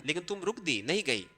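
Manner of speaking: normal talking voice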